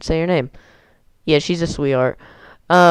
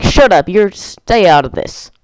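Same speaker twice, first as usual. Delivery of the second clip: retold hothead snapping; 3 semitones higher, 4 dB louder than usual. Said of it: "He's a real hothead".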